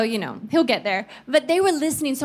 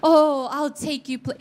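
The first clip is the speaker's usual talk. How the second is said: a touch of the Spirit's tender call; tender voice of God. Retold or imitated. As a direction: speak love to a child. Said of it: "not an audible voice".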